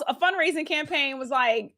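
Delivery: usual speaking voice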